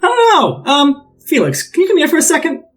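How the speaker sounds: high, snide, mocking call. Rickard snidely calling Felix over, high and mocking. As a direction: beckon him with a sneer. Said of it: "very snidely and shittily".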